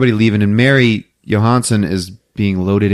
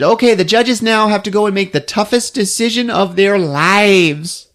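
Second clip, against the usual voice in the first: higher dramatic host announcement; higher, hammed-up pageant host; mock host; 8 semitones higher than usual. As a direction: build the tension like a show host. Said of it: "She interrupts him and".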